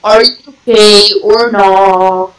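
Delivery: mocking. Mocking echo of taunt.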